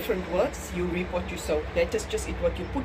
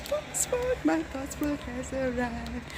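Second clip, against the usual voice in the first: slow, hushed, awed announcement; awed excitement; 4 dB quieter, slower than usual. Real, not acted. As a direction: savour each word in disbelief. Overjoyed at passport arrival.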